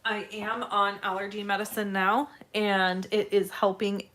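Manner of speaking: slightly raspy, congested voice. Real, not acted. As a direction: talk through a raspy, irritated throat. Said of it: "So I still have kind of a raspy voice".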